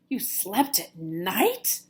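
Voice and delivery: slow amazed gasp of a question; be shocked, slowly. Acted. Bat amazed she slept at night, slow gasp. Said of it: "gasped another".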